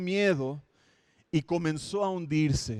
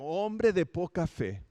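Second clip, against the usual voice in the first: mild rebuke; slower than usual. Retold or imitated. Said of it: "lo reprendió".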